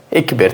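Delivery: EKBER with E vowels instead of A; name the mistaken word, "Ekber" with an E; incorrect pronunciation. Shown as a demonstration. Teacher points out what is being said wrongly, E vowels. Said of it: "Aí é incorreto".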